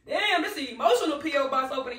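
fast, loud, laughing emotionally; teary laugh; laughing through tears. Real, not acted. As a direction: laugh it off while moved.

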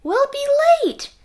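high, loud call of We'll be late; 1 dad calling. A narrator's reading. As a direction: call it out across the house. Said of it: "said his dad".

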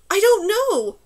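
high, loud shouted reply; yelling. A narrator's reading. Girl answering her companion far along the bridge, yelling. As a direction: yell back across the distance. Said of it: "she yelled".

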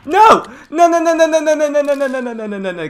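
screaming no, fading down; loud repeated no. Real, not acted. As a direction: start yelling and wind down. Target escapes, repeated protest.

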